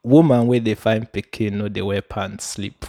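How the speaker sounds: proverb in Nigerian pidgin. Acted. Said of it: "I'm going to say it in pidgin".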